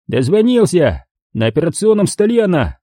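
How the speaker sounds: high, pleased thug voice; gloating thug. Acted. Thug gloats to his bound hostages in a high pleased voice. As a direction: gloat over the trapped pair.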